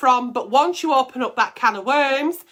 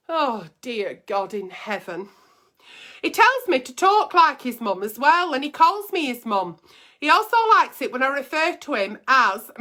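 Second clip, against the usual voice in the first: higher, lightly put-on voice of the girl writing in; letter writer voice; 3 semitones higher than usual. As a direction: read it as the worried girlfriend asking for advice. Reading out a viewer's letter.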